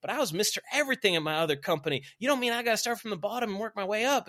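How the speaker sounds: high, loud mock protest; indignant follower. Former big shot objecting to starting from bottom, mock indignation. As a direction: imitate someone balking at starting over. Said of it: "someone's like".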